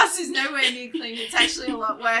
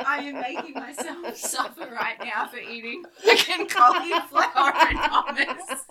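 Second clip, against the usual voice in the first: laughing self-mockery; 3 semitones higher than usual. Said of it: "And I'm like".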